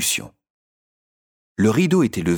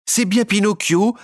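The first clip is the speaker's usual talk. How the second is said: high, louder puppet voice, stress on bien; puppet confirming; 12 semitones higher, 4 dB louder than usual. A narrator's reading. Punch answers Harlequin, high eager puppet voice. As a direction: state it firmly, eyes wide.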